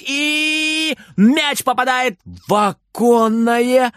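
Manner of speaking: ordinary delivery, nothing marked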